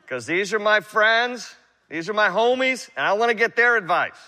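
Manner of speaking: preacher lightly voicing Rehoboam eager for his friends' advice; young king asking his friends. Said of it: "he's like".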